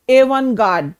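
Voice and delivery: एवनगार्ड said with the final t silent; teacher demonstrating एवनगार्ड with no t sound; silent t pronunciation. Shown as a demonstration. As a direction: model एवनगार्ड clearly, dropping the t. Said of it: "जो टी है ये silent है".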